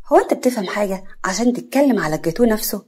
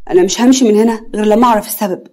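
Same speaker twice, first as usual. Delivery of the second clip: louder, firm refusal to leave; shocked and determined; 6 dB louder than usual. Acted. The suitor insists to the mother, shocked and determined. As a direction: dig in and insist. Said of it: "مصدوم ومصمم".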